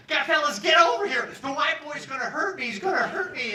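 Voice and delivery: high loud call through laughter; laughing call-out. Retold or imitated. Cellmate calling the others over, laughing and shouting. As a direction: call the fellas over, cracking up. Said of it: "And he's laughing".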